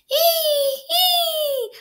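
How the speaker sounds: high, squealing neigh; whinny like a playful horse. A narrator's reading. Teacher reading to children, high horse neigh. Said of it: "relinchó el caballo".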